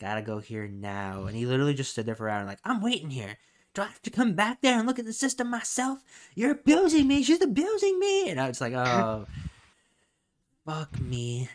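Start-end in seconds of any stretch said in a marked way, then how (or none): 2.6-8.3 mock shrill, very high yelling, swooping and climbing. Retelling a man who waited an hour at the pharmacy: imitating a man yelling. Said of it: "And just starts yelling".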